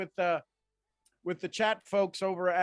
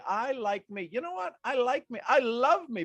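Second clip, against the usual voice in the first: affirmation; 6 semitones higher, 4 dB louder than usual. Shown as a demonstration. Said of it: "And then say".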